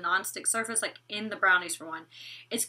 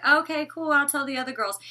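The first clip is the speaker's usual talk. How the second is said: indifferent mimic; 5 semitones higher than usual. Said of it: "You're just like".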